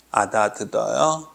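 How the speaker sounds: usual speaking voice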